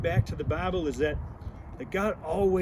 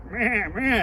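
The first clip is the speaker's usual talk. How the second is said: goat bleat; 2 semitones higher than usual. Retold or imitated. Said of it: "He never did nothing except go".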